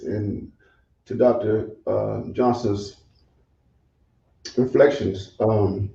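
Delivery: faint and distant from the mic; too far from the microphone; barely audible. Real, not acted. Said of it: "You sound like you're distant".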